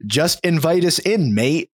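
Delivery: badly faked British accent; poor British accent. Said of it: "In that similarly poor British accent".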